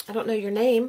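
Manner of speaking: ordinary talk, nothing marked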